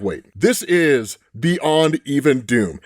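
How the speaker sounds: low, slow, mock-grave villain line; mock Doctor Doom. The fan voicing Doom's dawning realisation, low and slow. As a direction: drop low and draw it out like a brooding tyrant. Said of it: "he's just like".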